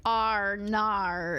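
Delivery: "ar", "nar" in mock Australian vowels; Australian accent. Shown as a demonstration. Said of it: "Australians say things like".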